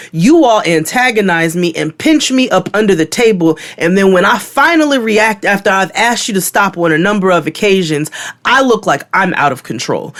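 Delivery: heated retelling, pressing the grievance; hot, retold anger. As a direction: re-enact an exasperated rant. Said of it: "I was hot in that moment".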